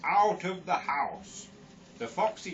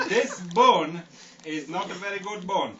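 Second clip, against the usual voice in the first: lightly voiced Yorkshire Indian customer; Yorkshire Indian accent. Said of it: "Yorkshire Indian".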